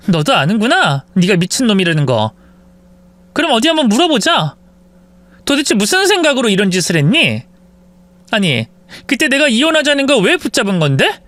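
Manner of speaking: sarcastic, rising accusation; bitter wife. Acted. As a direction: needle him with each question. Wife interrogates husband.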